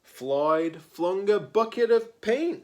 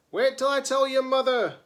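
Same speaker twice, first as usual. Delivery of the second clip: higher, louder scolding threat; scolding neighbour; 9 semitones higher, 5 dB louder, faster than usual. Acted. The neighbour across the street threatens Floyd, scolding. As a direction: tell him off like a cross neighbour. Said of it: "The person in the house across the street says".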